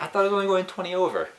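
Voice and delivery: high, fast, laughing confession; sheepish laugh. Real, not acted. Friend admitting his speed to host, laughing sheepishly. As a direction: blurt it out through a giggle.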